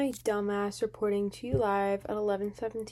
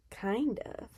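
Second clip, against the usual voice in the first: whispered aside; 7 dB quieter than usual. Real, not acted. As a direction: breathe it out unvoiced. Quiet self-assessment.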